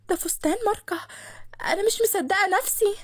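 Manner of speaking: overjoyed by the dress; thrilled. Acted. Manar thrilled by brand dress. (منار فرحانة بصوت أعلى)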